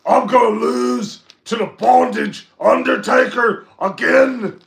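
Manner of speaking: high, very loud, outraged wrestler rant; Drew McIntyre impersonation. Acted. Co-host performs his wrestler impersonation on request, furious shouting. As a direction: shout it like a furious wrestler who can't believe his losses. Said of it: "my Drew McIntyre impersonation".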